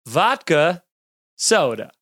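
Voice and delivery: slow, spaced-out "vodka ... soda"; savoured drink name. Shown as a demonstration. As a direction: let "vodka" and "soda" land as separate words. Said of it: "You know, you hear it".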